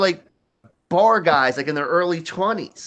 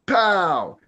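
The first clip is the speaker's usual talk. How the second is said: higher, falling pow; imitated punch sound; 4 semitones higher than usual. Storyteller sounds out Sam's punch, punchy pow. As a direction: verbal punch sound effect.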